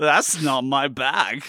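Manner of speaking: put-on German-accented spy voice. Showing a crossed impression to the other speaker: Austin Powers impression with German accent. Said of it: "Austin Powers in Germany".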